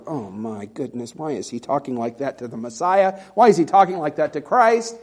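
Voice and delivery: Philip. Acted. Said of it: "I can picture Philip going".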